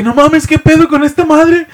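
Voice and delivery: high, slow mock fright; lightly hammed fear; scared. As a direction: drag out the scared disbelief. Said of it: "yo así bien asustado".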